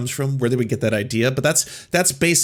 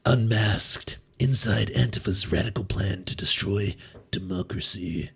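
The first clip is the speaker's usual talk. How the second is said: dramatic title read; 5 semitones lower, 3 dB quieter, slower than usual. Pretend. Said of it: "I did it better".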